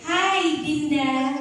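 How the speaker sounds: polite, gently pitched greeting; polite intonation. Shown as a demonstration. Teacher shows pupils a polite way to greet someone, courteous. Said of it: "maka itu intonasi yang so-, sopan".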